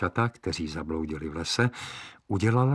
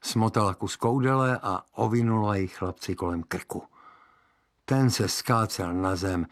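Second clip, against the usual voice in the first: ordinary delivery, nothing marked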